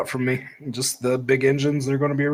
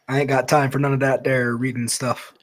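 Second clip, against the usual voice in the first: put-on weak, jokey Southern accent; lightly put-on Southern accent; bad Southern accent. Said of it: "the worst Southern accent".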